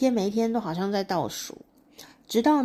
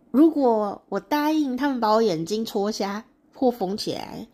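louder, higher incredulous protest; indignant questioning; 3 semitones higher, 4 dB louder than usual. Acted. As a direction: press her with disbelieving questions.

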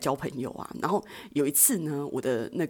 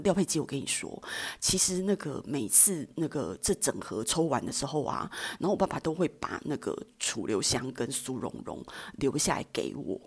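hushed secret; 3 semitones lower, 5 dB quieter than usual. Retold or imitated. Girl confides secret to friend.

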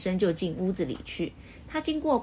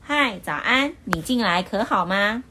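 friendly greeting; 5 dB louder than usual. Acted. Mr. Happy cheerfully greeting Mr. Grumpy, friendly and light. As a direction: greet a neighbour kindly. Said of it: "很亲切地向暴躁先生打招呼".

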